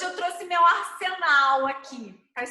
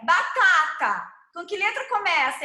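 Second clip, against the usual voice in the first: teacher asking; 3 semitones higher, 5 dB louder than usual. Shown as a demonstration. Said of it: "eu falo assim".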